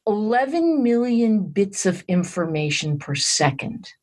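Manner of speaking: slow, measured delivery for impact; deliberately slow. Shown as a demonstration. Guest revealing a shocking figure to the host, deliberately slow. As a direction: spell out the startling figure slowly, word by word. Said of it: "I'm gonna say this slowly".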